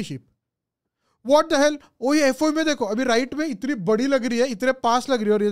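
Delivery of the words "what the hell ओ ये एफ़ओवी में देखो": surprised what the hell. Real, not acted. Sheep looks huge on screen.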